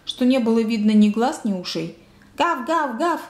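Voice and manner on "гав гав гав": higher-pitched voiced "gav" barks; dog barking. A narrator's reading. Shaggy dog yapping on and on, mild barking. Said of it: "не переставая лаяла".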